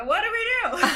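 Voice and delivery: high-pitched retold cry for help; panicked. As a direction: ask it in a mock panic, voice shooting up. Panicked question to dad in story.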